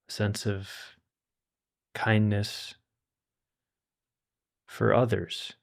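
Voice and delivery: calm, unhurried meditation guide with long pauses; guided meditation. Acted. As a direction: gently guide listeners to settle and relax, leaving space between phrases.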